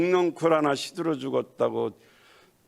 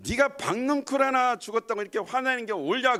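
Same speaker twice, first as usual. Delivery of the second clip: God's pointed question, raised high; 10 semitones higher than usual. Retold or imitated. God challenges Jonah over the dead vine, pointed and raised. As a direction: press him with the question.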